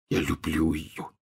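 slow, faint whispered love; barely audible. Acted. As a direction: breathe it out, barely there. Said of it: "чуть слышно повторил Рон".

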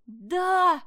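loud, high, eager cry; excited shout. A narrator's reading. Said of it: "закричал Ванчо". (громкий нетерпеливый крик)

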